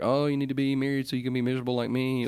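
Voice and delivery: quick, lightly put-on voice of miserable married people; mimicked married nag. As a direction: rattle it off as mild mockery.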